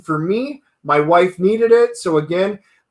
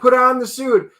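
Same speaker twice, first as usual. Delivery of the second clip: high, urgent command; high-pitched mock urging from the wife; insistent wife; 6 semitones higher than usual. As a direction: push him to suit up.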